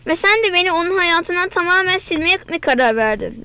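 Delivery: usual speaking voice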